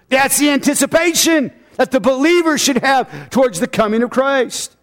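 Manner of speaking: high, driving preacher's delivery; full-force preaching. Real, not acted. Preacher telling believers to await Christ, preaching high.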